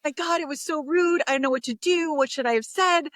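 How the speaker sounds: high, agitated retold rant. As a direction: vent to a friend in a mock flustered rush. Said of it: "I'm ranting".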